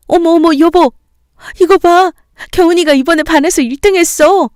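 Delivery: a mother bursting with joy, calling her husband; thrilled shout. Acted. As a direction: mom shouting to husband about the grades, thrilled. Mother sees first place.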